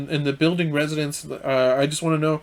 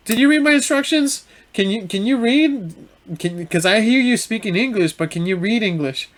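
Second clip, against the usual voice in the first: pitched-up, patronizing customer; rude condescension; 5 semitones higher than usual. Retold or imitated. Rudest customer to driver asking the way, condescending. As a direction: imitate a snippy, talking-down customer. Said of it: "The rudest customer was".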